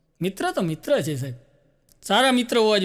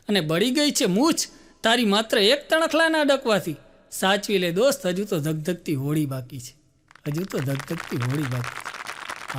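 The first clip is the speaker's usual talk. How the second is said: fading poem close; slower than usual. Acted. Comedian closing the poem, fading to a hushed, slow ending. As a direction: let the last line die away slowly.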